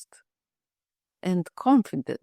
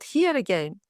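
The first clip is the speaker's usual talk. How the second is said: excited. Retold or imitated. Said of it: "she said".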